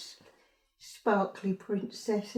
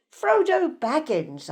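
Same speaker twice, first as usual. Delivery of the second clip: mildly triumphant, pitched up and louder; proud announcement; 4 semitones higher, 6 dB louder than usual. Acted. Mother presenting her son's costume to another mother, proudly announcing. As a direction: announce it with pride. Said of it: "I proudly announced".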